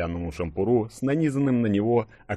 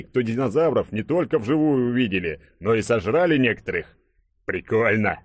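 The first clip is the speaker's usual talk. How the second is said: animated, slightly raised character voice; jovial burly hero, smug; 2 semitones higher than usual. Acted. Hero boasting to friends that he saved everyone, jovial self-praise. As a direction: brag cheerfully with punchy emphasis.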